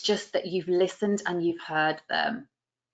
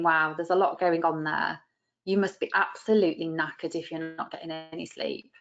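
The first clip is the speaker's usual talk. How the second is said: empathetic; 3 semitones lower than usual. Shown as a demonstration. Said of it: "connect that to the empathy".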